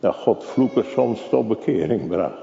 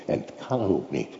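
softer, low, kan stressed; quiet aside; 4 semitones lower, 8 dB quieter, faster than usual. Acted. Preacher half to himself before repeating, quiet. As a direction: say it under your breath.

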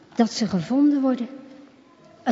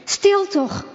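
higher, urgent hush; calling out; 7 semitones higher than usual. A narrator's reading. Skipper hushing the thrashing boy, higher call. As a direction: call him to stop, pitched up. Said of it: "roept de schipper".

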